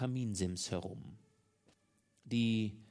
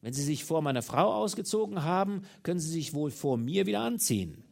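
mocking shout, higher and louder; 5 semitones higher, 6 dB louder than usual. A narrator's reading. Husband scornfully yells at the naked lover to get up. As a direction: bark the order with scorn. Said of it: "indem er schrie".

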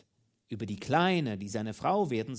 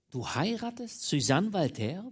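higher, indignant disbelieving question; furious indignation; 7 semitones higher, 4 dB louder than usual. A narrator's reading. Mistress confronting her lover about his marriage, indignant. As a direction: throw it back at him in outrage. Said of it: "wütend, voller Entrüstung".

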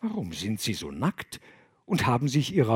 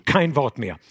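louder cutting-off command; interrupting; 6 dB louder than usual. Acted. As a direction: cut them short. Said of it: "unterbrach sie Gregorius".

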